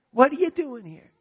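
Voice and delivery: high, loud, startled question; surprised twin. Acted. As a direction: act out finding someone unexpected at home. Acted surprise at finding the twin.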